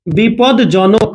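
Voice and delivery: slow teaching demo of বিপদজনক; slow drawn-out demo. Shown as a demonstration. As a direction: stretch বিপদজনক out syllable by syllable. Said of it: "বিপদজনক থেকে মনে করেন এরকম করলাম আমি".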